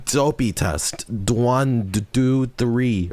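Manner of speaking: high-pitched mock mic check; imitating Dopey's mic test. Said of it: "He was just like".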